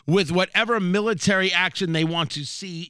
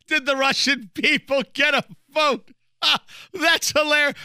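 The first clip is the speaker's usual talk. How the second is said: higher, laughing mock Russian official voice; 8 semitones higher than usual. Host mocking a Russian official amused by the vote question, laughing. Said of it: "I assume that's how Russians laugh".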